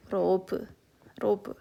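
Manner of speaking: Robe said as Korean ro-bu; Korean loanword. Shown as a demonstration. Teacher showing how Koreans say love: Robe, r sound. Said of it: "nyebut love itu".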